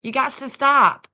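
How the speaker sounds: loud playful scolding; telling someone to stop. Real, not acted. Streamer scolding a chatter who keeps cash apping, loud and playful. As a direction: call out at a chatter to cut it out.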